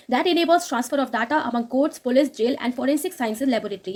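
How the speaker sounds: very slow, careful reading of English text; slow news read. Acted. Teacher reading the English news line to students, slow and careful. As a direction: read each word out slowly for students.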